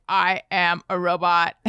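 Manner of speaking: lightly imitated robot. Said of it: "Elliot has started doing robot voice".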